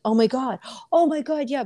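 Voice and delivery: mock aha excitement. Mocking people chasing an aha moment, mock excited. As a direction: imitate a fleeting aha rush, pitch climbing. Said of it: "Oprah's aha moment".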